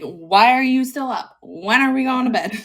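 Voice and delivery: high, loud whiny cat demanding bed. Retold or imitated. Cat nagging owner at night, high and loud. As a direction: pester like a needy cat. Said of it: "She literally was like".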